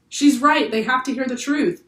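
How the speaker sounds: high, loud yell. A narrator's reading. Jack yells while running to the railing, loud. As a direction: back her up at full voice. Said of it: "yelled Jack".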